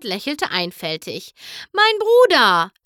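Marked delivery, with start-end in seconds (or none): 1.7-2.7 very high, loud cry; shocked little sister's shout; alarmed cry. A narrator's reading. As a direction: cry out for her brother. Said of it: "rief Apple Bloom".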